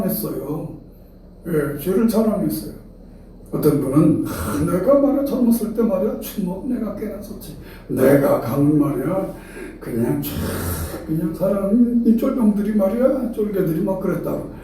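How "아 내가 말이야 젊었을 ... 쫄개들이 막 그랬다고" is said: mock proud bragging, lifted at first; imitated boasting. Preacher mimics a man proud of his fighting youth, boastful. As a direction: swagger like someone retelling old glory days. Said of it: "아주 그걸 막 자랑스럽게 얘기를 해요".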